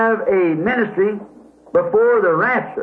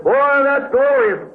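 mock high church; 5 semitones higher, slower than usual. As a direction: ham up the proud church's praise. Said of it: "the great high church says".

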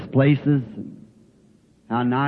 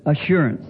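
"Assurance" said firmly with a falling close; stress on assurance. Shown as a demonstration. Preacher correcting the word, firm "Assurance". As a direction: lean on "Assurance" as the right word. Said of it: "I said".

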